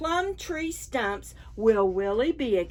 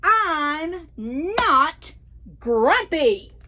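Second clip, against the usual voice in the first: a touch louder, acted yell; mild mock shout; 6 semitones higher, 6 dB louder, much slower than usual. Jim shouting at the others, mock yell. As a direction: shout it, half-hearted. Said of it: "shouted Jim".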